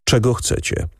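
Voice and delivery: cool, composed question; calm question. A narrator's reading. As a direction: ask calmly, fully in control. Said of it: "Spytał spokojnie".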